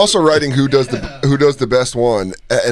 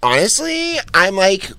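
put-on basic white girl drawl; Valley Girl voice; slower than usual. Shown as a demonstration. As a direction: sigh it like a dramatic teen. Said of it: "very basic white girl voice".

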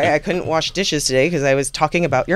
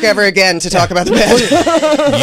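louder, firmer warning; firm retold warning; 5 semitones higher, 5 dB louder than usual. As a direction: tell him off for good. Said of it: "I said".

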